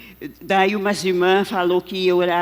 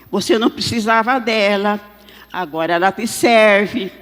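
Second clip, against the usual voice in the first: man calling out, louder and higher; raised voice with long, drawn-out calls; shouted rebuke; 3 semitones higher, 5 dB louder than usual. Retold or imitated. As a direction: imitate a man shouting a reproach. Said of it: "o homem gritou assim".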